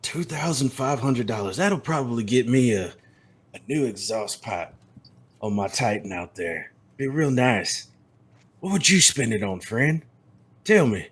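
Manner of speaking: a hint of a cold cowboy; menacing cowboy. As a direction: toy with him calmly. Tex keeps menacing.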